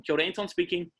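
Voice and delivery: demoing how he picks up the phone; phone greeting. Shown as a demonstration. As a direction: greet the caller with kia ora. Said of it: "That's how I answer the phone".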